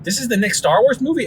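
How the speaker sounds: put-on high, puzzled kid's question; imitating his four-year-old self, confused; a kid asking his cousins, high and puzzled; little kid's surprise. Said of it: "And I just remember saying, like".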